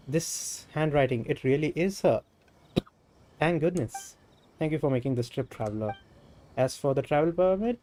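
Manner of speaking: animated dialogue read with emphatic openings; lightly voiced game character. Game character answers a traveler bearing a letter, lightly acted. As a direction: lightly act out a character's spoken lines.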